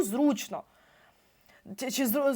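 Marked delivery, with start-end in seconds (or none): 0.0-0.6 зручно with the stress early, on у; stress on зручно's first syllable. Shown as a demonstration. Teacher showing students the correct stress, зручно stressed on у. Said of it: "наголос на «у»".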